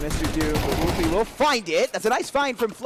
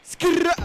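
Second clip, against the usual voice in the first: higher, louder tire skid; skid noise; 13 semitones higher, 4 dB louder than usual. Pretend. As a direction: make a car skid sound. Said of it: "I'll do it".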